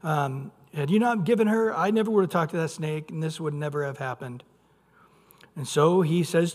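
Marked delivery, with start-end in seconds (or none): 0.0-4.4 petulant complaint. Retold or imitated. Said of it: "if it was just me around".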